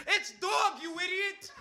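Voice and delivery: high-pitched imitated yell of a friend; retold scream. Friend jumping up in the movie theater, screaming high. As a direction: squeal it out like a kid in the theater. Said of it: "starts screaming".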